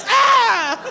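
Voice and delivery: high, loud disgusted yelp; disgusted shriek. Retold or imitated. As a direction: recoil with a shocked cry. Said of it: "They're like".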